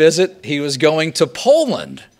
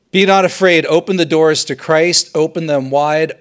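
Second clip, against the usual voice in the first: proclaimed; 3 semitones higher, 5 dB louder than usual. Shown as a demonstration. Proclaims pope's homily words.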